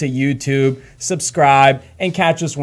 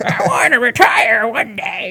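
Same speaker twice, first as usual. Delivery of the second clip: put-on slow elderly woman's voice; 8 semitones higher than usual. Talking about helping people retire, old lady voice. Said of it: "like Alan's old lady voice".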